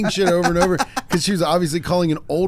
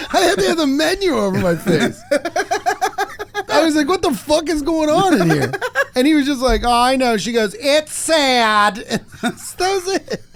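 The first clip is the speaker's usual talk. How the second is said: high, laugh-filled retelling, much higher; laughing while talking; 12 semitones higher than usual. Real, not acted. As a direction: talk through giggles you can't stop.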